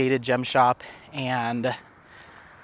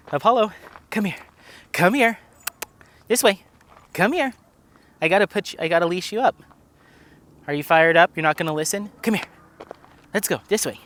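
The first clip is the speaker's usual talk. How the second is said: much higher coaxing calls; calling the dog; 5 semitones higher, faster than usual. Real, not acted. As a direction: coax the dog over to be leashed. Calling dog Apollo to leash.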